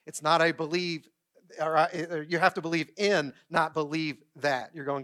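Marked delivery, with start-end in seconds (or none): 2.6-3.3 "in" punched as the key word; stress on in. Shown as a demonstration. Contrasts believing in with believing that. 3.5-4.8 "that" drawn out and set apart; slow down and land on "that"; stress on that. Shown as a demonstration. Contrasts believing in with believing that.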